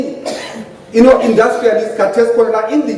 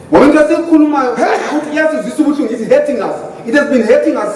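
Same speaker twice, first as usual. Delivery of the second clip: emotional; faster than usual. Real, not acted. Panellist excusing himself for being emotional, impassioned and rushed. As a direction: let the hurt rush out quickly. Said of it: "excuse me for being emotional".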